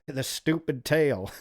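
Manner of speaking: laughing. Real, not acted. The streamer laughs at his own misread line. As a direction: chuckle as you reread it.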